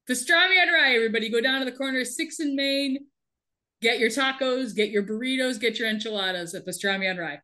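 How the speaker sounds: playful street-vendor sales pitch; mock advert. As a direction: call out a jokey restaurant plug.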